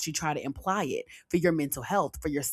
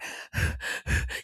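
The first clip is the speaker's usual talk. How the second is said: imitated labored breaths before crying; pre-cry heaving breath; 6 dB quieter than usual. Shown as a demonstration. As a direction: show the chest heaving in short voiceless puffs. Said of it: "chest start".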